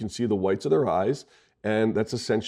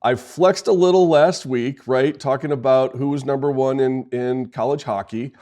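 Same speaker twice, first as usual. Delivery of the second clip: mock rant; 5 semitones higher, 5 dB louder than usual. Real, not acted. Ranting about college hockey.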